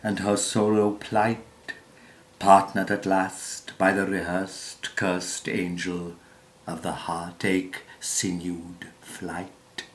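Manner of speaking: measured, declamatory verse reading with swells on key phrases; theatrical poetry reading, pausing between phrases; poem recitation. Acted. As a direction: recite it like stage verse, leaning into the stressed words.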